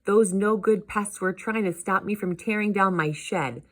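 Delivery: a hint of worked-up cartoon uncle; grumbling uncle. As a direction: complain about pests with mild exasperation.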